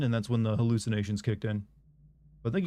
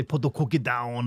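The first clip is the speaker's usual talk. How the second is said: Arnold voice. Retold or imitated. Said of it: "you're gonna hear me say".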